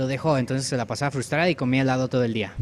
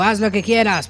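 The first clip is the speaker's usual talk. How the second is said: louder, higher mock-stern mom; raised comic mom voice; scolding mother; 6 semitones higher, 6 dB louder than usual. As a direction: scold like an exasperated mother pig. Mother pig scolding her piglet.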